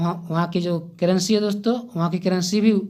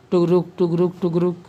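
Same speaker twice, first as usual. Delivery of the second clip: rhythmic, lightly mimicked horse clip-clop; imitating hoofbeats. Shown as a demonstration. Teacher gives students a horse-sound memory trick, imitating hoofbeats. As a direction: chant the word like hooves trotting. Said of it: "घोड़े की आवाज़ कैसी होती थी?".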